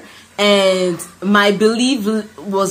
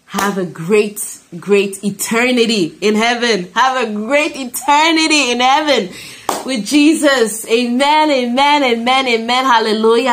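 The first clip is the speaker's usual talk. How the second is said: fervent blessing; 5 semitones higher than usual. Real, not acted. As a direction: bless them with growing joy. Closing blessing, rising fervour.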